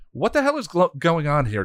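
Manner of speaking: high, loud indignant demand. Acted. Hell god storming over to the spell, demanding. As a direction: snap out who dares do this. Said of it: "Glory demanded".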